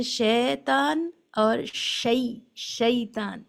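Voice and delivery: شیطان said slowly with a clear ay vowel; two vowel sounds. Shown as a demonstration. Teacher contrasting the two sounds of shi. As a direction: draw out شیطان carefully. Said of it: "اس کی دو آوازیں ہیں".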